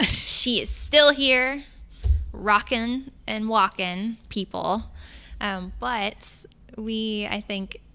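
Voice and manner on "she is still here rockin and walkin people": spirited cheer. Real, not acted. Cheering grandmother's vitality.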